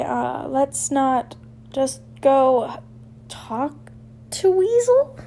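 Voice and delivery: stuttering. Acted. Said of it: "Blaise stuttered".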